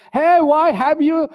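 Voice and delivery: high indignant protest; retold shouting. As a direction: cry out your innocence at the police. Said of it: "I started shouting in police station".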